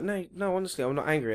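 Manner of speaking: protesting, voice kept down; mock calm. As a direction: plead your calm lightly. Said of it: "could be as calm as anything".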